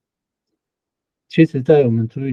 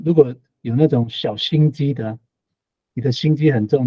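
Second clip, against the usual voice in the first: normal talking voice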